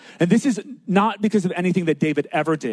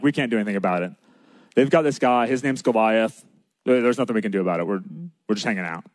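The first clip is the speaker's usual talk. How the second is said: low, offhand shrug of a voice; lightly mocked helplessness; resigned excuse; 5 semitones lower, faster than usual. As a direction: act out giving up, pitch dropped. Brothers' resigned excuse acted out.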